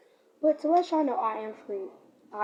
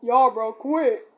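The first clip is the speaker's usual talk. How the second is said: put-on teenage voice crack, loud; 2 semitones lower, 8 dB louder, much slower than usual. Shown as a demonstration. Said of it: "my voice cracked and it sounds like this".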